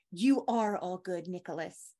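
lightly voiced mom, soothing; mother's voice. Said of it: "As my mother would say".

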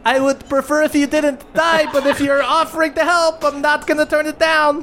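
high, wry goblin voice; goblin captain. Acted. Ma Goblin answers party's offer, high wry voice. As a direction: grudgingly accept the help.

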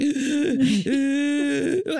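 wheezing gasp after running; wheezy voice. Shown as a demonstration. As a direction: gasp for air like you just ran. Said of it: "I wheeze for cheese because I run and I'm like".

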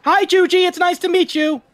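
high, loud, keen hello; eager guide greeting. Acted. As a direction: greet them with over-eager pep.

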